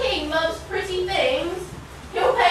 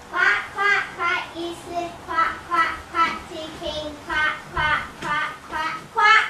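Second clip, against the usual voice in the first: duck quacking; 5 dB quieter than usual. Acted. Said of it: "you're quacking up".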